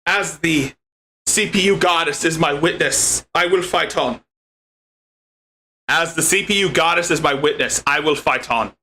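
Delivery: put-on a light Celtic accent, the vow said again; a muted Irish or Scottish lilt. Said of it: "jumped onto an Irish accent or Scottish".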